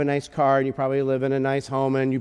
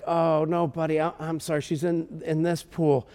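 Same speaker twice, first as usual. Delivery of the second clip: gentle consoling. Retold or imitated. Father apologizing to his crying son, gentle consoling. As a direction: soothe an upset little one.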